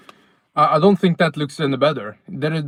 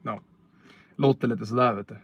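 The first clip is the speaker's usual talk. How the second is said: put-on Norrland accent. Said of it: "typical Nordic Swede".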